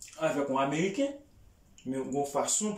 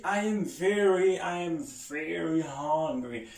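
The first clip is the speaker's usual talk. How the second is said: slow careful demo; slower than usual. Shown as a demonstration. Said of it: "Si m ap di m gran gou anpil, m ap di".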